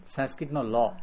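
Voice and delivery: "ロ" in "サンスクリットのロ" matches English L; touch the tongue up for "ロ"; L sound. Shown as a demonstration. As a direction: end on "ロ" said as la. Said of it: "イングリッシュのL".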